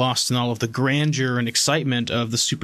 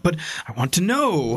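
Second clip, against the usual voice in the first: nerd voice; 6 semitones higher than usual. Retold or imitated. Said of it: "my sort of, like, nerd voice was like".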